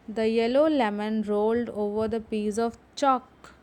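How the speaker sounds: slow, careful reading for the class; deliberate teacher read-aloud. Shown as a demonstration. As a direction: read it slowly so they can follow. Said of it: "उसको ज़ोर से पढ़ेंगे".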